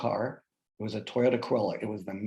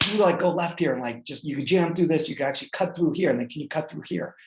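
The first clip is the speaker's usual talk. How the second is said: pushy, bossy directions, a bit higher and louder; barking orders; 4 semitones higher, 3 dB louder than usual. Retold or imitated. Passenger barking directions at his Uber driver, bossy. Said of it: "I'm, like, barking orders".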